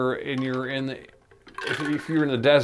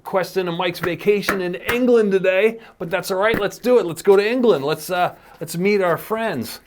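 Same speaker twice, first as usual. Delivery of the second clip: higher, upbeat announcer send-off; podcast host outro; 4 semitones higher, 4 dB louder than usual. Real, not acted. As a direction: wrap up the show and lead listeners onward. Show host sends to next segment.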